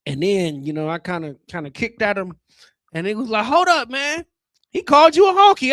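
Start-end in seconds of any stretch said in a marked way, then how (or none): 3.4-5.7 high, loud mock-outraged gangster; hyped-up gangster goose. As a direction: squawk it like an angry goose instigating. Goose gangster confronting him.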